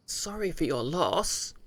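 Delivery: slow, mocking sing-song. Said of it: "With alternating caps".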